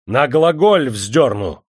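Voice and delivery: loud, high angry accusation; officer's irate bellow; shouting threat. A narrator's reading. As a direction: threaten him, stretching out the final words. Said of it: "прикрикнул офицер".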